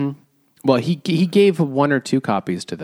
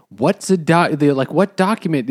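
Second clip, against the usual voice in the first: baffled villagers; 5 semitones higher, 4 dB louder than usual. Retold or imitated. Villagers baffled by eviction notice.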